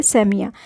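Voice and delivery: सेमिया starting with the "a" of English "and"; vowel sound demo. Shown as a demonstration. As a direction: open æ in the first syllable of सेमिया. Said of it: "एंड का ए sound आना चाहिए".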